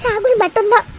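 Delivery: put-on mother-in-law crying with joy over the baby shower; tearful. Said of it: "எதுக்கு இப்ப நீ அழற".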